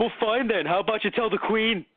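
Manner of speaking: mock outrage at the TV; mock indignant retort. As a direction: snap back in put-on offence. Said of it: "I was like".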